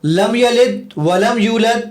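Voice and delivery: slow, drawn-out Quranic recitation; measured Arabic recital; deliberately wrong recitation. Shown as a demonstration. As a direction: recite the wrong verse slowly, as a test. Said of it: "میں اب اس کو غلط پڑھوں گا".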